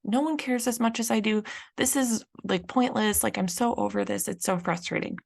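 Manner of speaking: lightly voiced frustration, fading off at the end; frustrated. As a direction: vent like nobody appreciates you. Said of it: "that same frustrated feeling".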